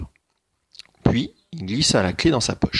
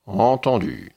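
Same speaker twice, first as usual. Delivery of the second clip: ogre agreeing; 3 semitones higher, 3 dB louder, slower than usual. Acted. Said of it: "dit-il".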